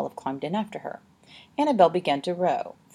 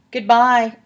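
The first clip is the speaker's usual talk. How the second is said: high, loud parting call; loud farewell; 6 semitones higher, 11 dB louder than usual. A narrator's reading. Annabel leaves Olive adrift, calling a loud goodbye. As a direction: call it out across the water. Villain abandons Olive in the boat.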